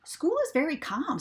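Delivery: prim Farmer Brown. A narrator's reading. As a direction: lay down the rule primly. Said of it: "said Farmer Brown".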